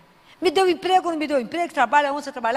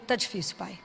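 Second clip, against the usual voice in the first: hushed prayer; 7 semitones lower, 9 dB quieter than usual. Acted. Kneeling child praying to father.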